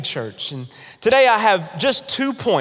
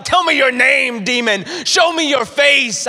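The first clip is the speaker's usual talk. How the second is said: mock demon challenge; 5 semitones higher than usual. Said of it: "I'm like".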